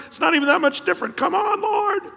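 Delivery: shouting half-laughing plea; exasperated shout. Real, not acted. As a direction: cry out in mock outrage. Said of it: "I remember feeling like".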